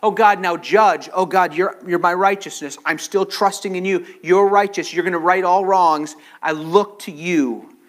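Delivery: praying aloud to God with fervour; fervent prayer. Acted. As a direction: pour it out as a heartfelt plea. Preacher prays the psalm aloud.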